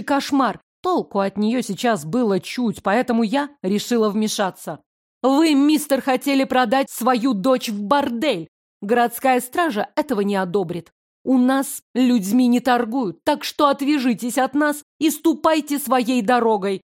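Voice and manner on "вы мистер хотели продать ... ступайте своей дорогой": firm rebuke. Acted. Heroine confronting the father.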